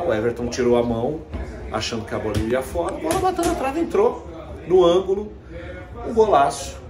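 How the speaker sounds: rising excitement, pitch climbing; excited. Real, not acted. Excitedly retells the late goal.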